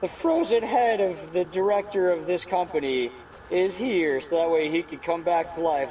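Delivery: hammed-up quote from a sitcom; acted TV quote. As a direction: proclaim it like a sitcom reveal. Quoting a TV show's line.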